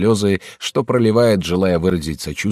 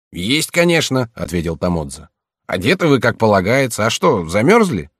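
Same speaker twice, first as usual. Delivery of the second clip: голос слуги; 3 semitones higher than usual. Acted. Слуга отвечает хозяину.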